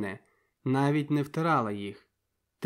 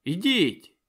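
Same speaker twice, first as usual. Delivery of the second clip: a louder joking push out the door; mock command; 5 semitones higher, 6 dB louder than usual. A narrator's reading. Mokryna shooing him out, loud and joking. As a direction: shoo him off with a laughing order.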